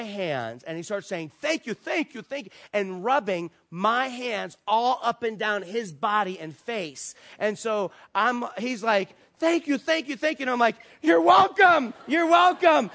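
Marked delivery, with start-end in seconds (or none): 1.4-2.5 gushing thanks. Retold or imitated. Grateful man gushing thanks. 9.4-10.4 high-pitched, louder rapid-fire gratitude; mock effusive gratitude; gushing thanks. Grateful man gushing thanks repeatedly. 11.0-12.9 high, shouted, panicky courtesy; comically strained, loud acknowledgment; alarmed politeness. Retold or imitated. Overwhelmed by man rubbing his hands.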